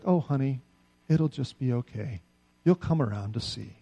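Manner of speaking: mock sugary reassurance; imitating a condescending person soothing someone in conflict; sweetly condescending. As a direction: pat them on the head with honeyed words. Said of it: "they say it so nicely ... so sweetly".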